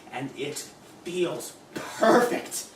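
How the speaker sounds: slow, drawn-out satisfaction; savoring relish. Acted. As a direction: drink in the feeling. Savoring power.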